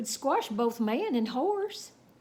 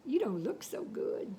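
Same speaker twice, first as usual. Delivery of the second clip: concerned whisper; 6 dB quieter than usual. A narrator's reading. Concerned to hurt cowboy.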